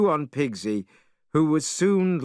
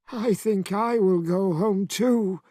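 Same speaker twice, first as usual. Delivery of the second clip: high timid pig voice; pig character voice; 7 semitones higher than usual. Acted. Pigsy tries to leave.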